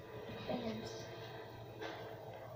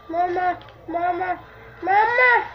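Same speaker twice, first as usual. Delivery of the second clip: calling mama; 4 semitones higher, 3 dB louder than usual. Pretend. Calling out in panic.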